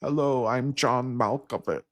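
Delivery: slow, measured Malkovich voice; pause-heavy celebrity drawl, deadpan; John Malkovich impression. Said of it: "does his John Malkovich impression".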